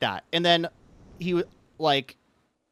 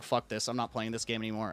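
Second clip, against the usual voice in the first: fed-up grumble; 5 semitones lower, 10 dB quieter than usual. Retold or imitated. Fed up after being trolled.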